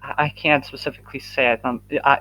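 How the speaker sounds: fast, tripping over words; stuttering. Real, not acted. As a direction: stammer it out quickly. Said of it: "excuse me for stuttering".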